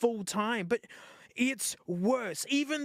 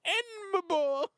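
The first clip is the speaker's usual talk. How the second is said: higher, slow, drawn-out and cooing; awed delight; 10 semitones higher, slower than usual. Real, not acted. To the viewers, marvelling at the phone, drawn-out awe. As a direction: savour "Enma board" slowly, voice lifted up high with a catch of joy.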